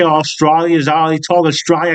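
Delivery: badly faked Australian vowels; failed Australian accent. Showing viewers how they say it, in a failed Australian accent. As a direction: fumble through an Australian accent. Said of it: "I can't do an Australian accent".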